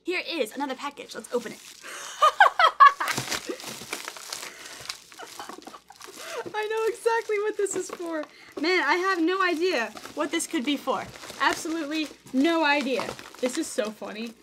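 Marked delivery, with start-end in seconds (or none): 1.6-6.5 loud, high burst of laughter that runs out of breath; big uncontrolled laugh; real laughing fit. Real, not acted. Cracks up at opened package. 6.5-13.0 high, loud, hammed-up bafflement; amused, raised-pitch pretend ignorance; mock cluelessness. Amused, then feigns cluelessness about gift.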